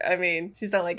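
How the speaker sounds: normal talking voice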